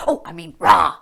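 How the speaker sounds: loud laugh breaking into rah; ticklish giggle. Acted.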